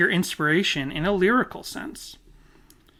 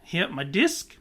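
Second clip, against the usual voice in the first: warming up a mock Aussie accent; short practice phrases in hammy Australian vowels; bad Australian accent; 3 dB quieter than usual. Shown as a demonstration. Podcaster gears up by talking about a desk, Australian accent. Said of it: "gear up for my bad Australian accent".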